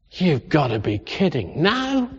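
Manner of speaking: scoff, then shoot the question up; incredulous disbelief. Retold or imitated. Voicing Zechariah's incredulous reply.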